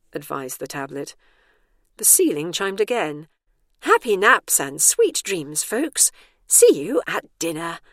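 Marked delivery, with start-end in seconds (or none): 3.8-7.8 loud, drawn-out public-address sign-off; announcement. A narrator's reading. Ceiling announcer wishes residents happy naps, loud and drawn out. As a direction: sing out a hearty goodnight to the building.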